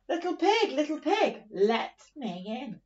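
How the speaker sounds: wolf voice. Acted. Retelling, wolf's line acted.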